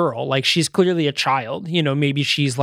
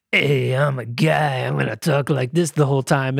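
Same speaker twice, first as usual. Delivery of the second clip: gravelly Western voice; 3 semitones lower than usual. Retold or imitated. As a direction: imitate a badly cast gravelly Western dub. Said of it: "weird Western gravelly raspy voice".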